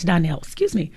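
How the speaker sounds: hoarse, fading voice; a voice that's about to give out; losing voice. Real, not acted. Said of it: "Sorry about to lose my voice".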